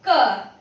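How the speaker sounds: a short, crisp isolated "क" sound; k sound demo. Shown as a demonstration. Teacher showing students how C sounds, isolated crisp "क". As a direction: sound out "क" like the start of cable. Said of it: "इसलिए इसका उच्चारण हमने किया है".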